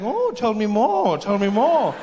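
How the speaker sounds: slow, dry mock interest; a touch of wry amusement; sarcastic Native American. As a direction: drawl it out sarcastically. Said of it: "And they're like".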